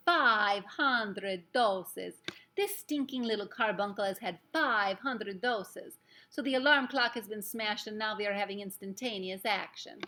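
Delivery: loud, gloating witch's yell with drawn-out words. A narrator's reading. Witch crowing to the others over the boy's dose, yelling. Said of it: "the voice of the Grand High Witch yelling".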